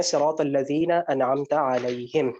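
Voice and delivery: slow, measured Quran recitation; slow tajweed-style reading; reciting the verse. Shown as a demonstration. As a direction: read the verse out slowly and deliberately. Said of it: "اگلی آیت دیکھیں".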